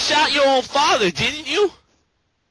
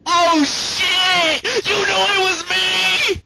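surprised; 5 semitones higher, slower than usual. Acted. Acted shocked exclamation.

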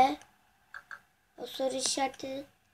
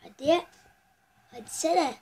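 excited urging; 2 semitones higher, 6 dB louder than usual. Real, not acted. Urging during shot.

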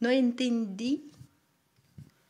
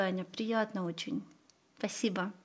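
ordinary talk, nothing marked

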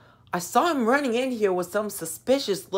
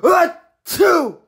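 panicked shout; 11 semitones higher, 8 dB louder than usual. Acted. Caught, blurting in panic.

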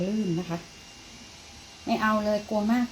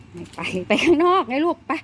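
higher, louder coaxing call; coaxing the cat; 7 semitones higher, 7 dB louder than usual. Real, not acted. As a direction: urge the cat out eagerly.

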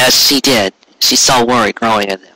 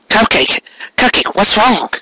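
higher, urgent worried call; alarmed calling; 9 semitones higher than usual. A narrator's reading. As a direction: reach out to her in alarm. Garrett alarmed by her panic.

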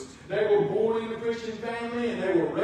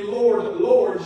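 crying out; 8 dB louder than usual. Acted. Preacher voices crying out to God.

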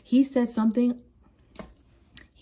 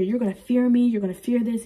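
a parent's threat, higher and louder on "me"; stern parent threat; 3 semitones higher, 3 dB louder than usual. Retold or imitated. Parent warning a child to fear them, stern and raised. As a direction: lay down the law to a scared kid.

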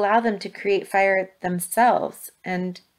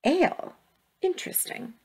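surprised; 8 semitones higher, 4 dB quieter than usual. Acted. Grandma reacts with surprise.

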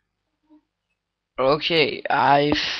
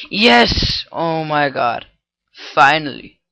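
excited cheer; 6 dB louder than usual. Real, not acted. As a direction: cheer as the bug finally breaks. Script finally works, cheering.

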